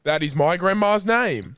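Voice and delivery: put-on slow, high amazed Russian accent. Clerk discovering a shared grandmother, amazed Russian accent. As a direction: exclaim slowly like an astonished Russian. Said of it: "'cause I am Russian".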